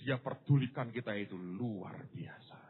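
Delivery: slow, breathy whisper of awe; preacher whispers to the congregation after the shout; hushed whisper. Acted. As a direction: drop to a whisper to draw them in. After shouting, drops to hush.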